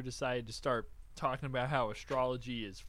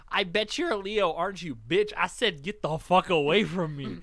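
mock pushy girl; 3 semitones higher, 6 dB louder than usual. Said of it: "And she goes".

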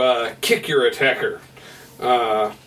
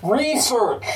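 broken radio voice; 12 semitones higher, slower than usual. Acted. Garbled radio transmission crackling.

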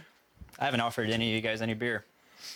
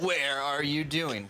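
mock quote; 2 semitones higher, slower than usual. Echoes the botched film line.

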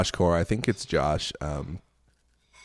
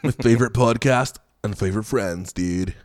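muddled mock Southern accent; badly faked Southern, drifting toward Californian; lightly put-on Southern accent; attempted Southern accent. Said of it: "I'm doing a Southern accent".

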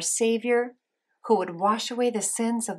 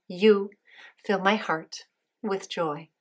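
slow repeat-after-me; slower than usual. Shown as a demonstration. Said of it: "repeat after me".

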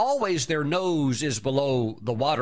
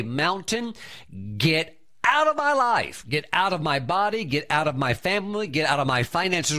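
commanding rebuke. Shown as a demonstration. Preacher shows believers how to speak to the mountain, commanding shout. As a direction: drive the mountain out with a bold command. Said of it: "you must speak to it and say".

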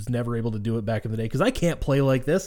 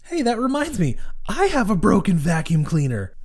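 light imitation of a Czech accent, pitched up; a mock Czech girl's voice, higher; 7 semitones higher than usual. Imitating the Czech girl asking about her vacuum, light Czech accent. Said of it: "such an Eastern European moment".

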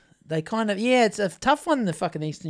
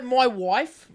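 Irish accent. Shown as a demonstration. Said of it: "with an Irish accent".

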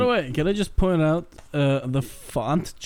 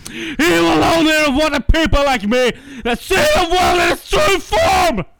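edgy villain rant. Acted. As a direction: play a brooding edgy villain working himself up to a frenzy. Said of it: "regale us with the edgy rant".

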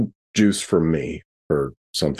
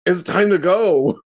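excited in-character line; 11 semitones higher, 3 dB louder, slower than usual. Acted. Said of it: "once again say".

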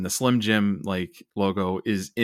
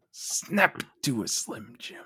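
mock ad slogan; 4 semitones higher, 4 dB quieter, slower than usual. Mock Slim Jim slogan.

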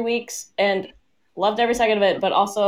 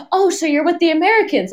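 retold stranger's question; 7 semitones higher, 4 dB louder than usual. Retold German lady's question.

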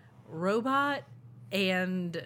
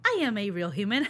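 robot faking human; 2 semitones higher, 6 dB louder, faster than usual. Pretend. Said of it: "if a robot will be the same".

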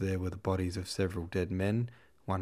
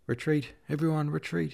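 high, loud cry to retreat; shouting; 8 semitones higher, 4 dB louder than usual. A narrator's reading. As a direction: yell it while fleeing. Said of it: "he shouted from a distance".

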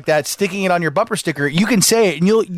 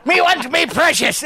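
higher, laughing Gollum imitation; 6 semitones higher than usual. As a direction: squeak it like a giggling Gollum. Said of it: "a Gollum and a leprechaun".

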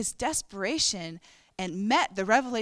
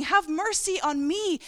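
retold shout; 8 semitones higher, slower than usual. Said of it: "he's shouting".

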